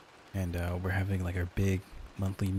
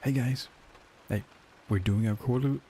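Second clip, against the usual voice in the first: a touch higher, cheery boss opener; upbeat manager voice; 4 semitones higher than usual. Acted. Manager opening the quarterly meeting, lightly upbeat. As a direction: lightly play the chipper sales manager. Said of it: "upbeat manager voice".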